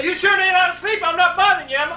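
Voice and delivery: high, loud pleading voice; needy dad. Retold or imitated. Dad pleading with his son to come, high. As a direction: plead like a helpless old dad.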